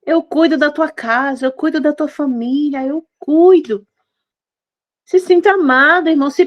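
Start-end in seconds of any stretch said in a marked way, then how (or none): 0.0-3.8 tender reassurance. Acted.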